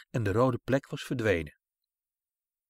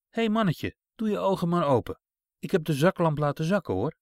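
soothing kind voice; 5 semitones higher than usual. Acted. Kind woman soothes scared child.

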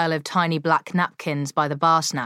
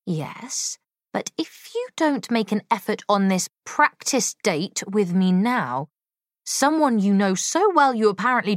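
clear and pointed; 4 semitones higher than usual. Acted. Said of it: "Molly spoke clearly".

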